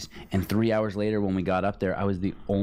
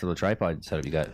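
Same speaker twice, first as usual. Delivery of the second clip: talking between sips; slurping coffee; 3 semitones lower than usual. Real, not acted. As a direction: speak right after a slurp. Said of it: "Sorry about the slurping".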